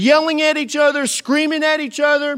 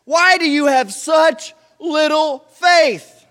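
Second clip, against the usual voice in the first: drawn-out, higher, louder challenge; slow questioning rebuke; 5 semitones higher, 5 dB louder, slower than usual. Retold or imitated. Jesus questioning the disciples' faith, slow rebuke. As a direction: ask it slowly, puzzled. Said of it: "his response is".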